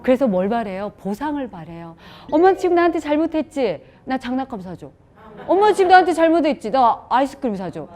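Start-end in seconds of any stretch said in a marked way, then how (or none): 2.3-7.9 put-on higher, louder whiny child demanding; a child cashing in on mom's guilt. Child demands a reward from the guilty mother, higher and louder. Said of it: "이렇게 되는 거예요".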